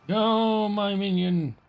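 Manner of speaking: high, slow villain command. Acted. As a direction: command the minion grandly.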